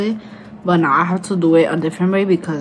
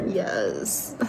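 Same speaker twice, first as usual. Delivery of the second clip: deep voice; 9 semitones lower, 8 dB quieter than usual. Pretend. Low aside after boasting.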